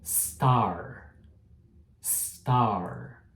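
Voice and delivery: "star" with a clean s, no vowel before it; correct English s. Shown as a demonstration. Teacher showing students the right way to say "star". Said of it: "Por exemplo".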